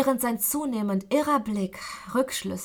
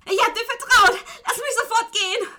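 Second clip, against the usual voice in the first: high, loud, breathless yell; forceful scream; 13 semitones higher, 7 dB louder than usual. Acted. Betrayed captive screams at her kidnapper to let her go. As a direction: scream at him, furious and pressed for air. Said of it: "schrie ich ihn mit energischer Stimme an".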